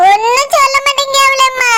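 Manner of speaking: tearful complaint through sobs; a mother's voice breaking as she weeps; crying. Acted. Mother weeping as she worries over her injured son, crying.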